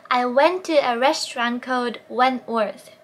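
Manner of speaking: very slow, lips rounded for each W; slow drill read; slow practice sentence. Shown as a demonstration. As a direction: model it slowly for learners. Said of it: "練習問題を出す".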